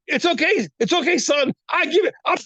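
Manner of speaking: a hint of a fatherly God granting permission; God speaking. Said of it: "God said".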